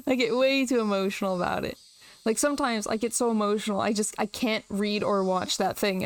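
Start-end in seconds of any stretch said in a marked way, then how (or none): 0.1-1.8 laughing. Real, not acted.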